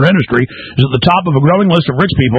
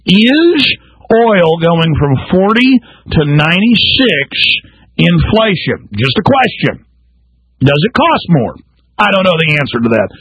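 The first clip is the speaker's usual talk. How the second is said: dry mock innocence; sarcastic; 2 semitones higher than usual. Real, not acted. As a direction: ask it with heavy sarcasm. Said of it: "I'm being sarcastic".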